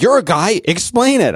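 hammed-up women insisting he explain; imitating wife and mom. Husband imitating wife and mom asking about his son, high mock voice.

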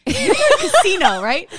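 a loud high mock boss check; quoting him. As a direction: mimic him checking she's on Casino. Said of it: "his response to my questions was".

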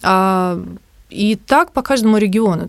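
ordinary talk, nothing marked

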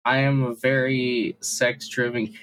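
drowsy, half-asleep voice; sleepy, drifting speech; nodding off. Real, not acted. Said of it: "I sound like I'm half asleep".

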